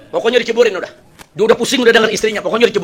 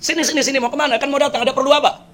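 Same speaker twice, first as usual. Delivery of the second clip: raised pitch, beckoning call; calling someone over; 6 semitones higher than usual. Acted. Caliph beckons a retreating guest at his door, calling out. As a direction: summon a hesitant visitor over.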